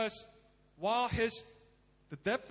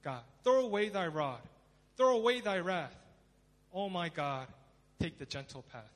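crying out to God; 2 semitones lower, 3 dB louder than usual. Acted. Preacher voices poet praying for mercy, crying out. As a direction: plead up to God, letting the force fade. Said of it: "he's crying out to God".

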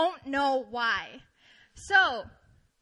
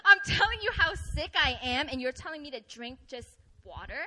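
mock-offended, starting louder and dropping off; 4 dB louder than usual. Sick worker answering water advice, mock-offended. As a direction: act affronted at the advice, half laughing. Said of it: "so offended, right?".

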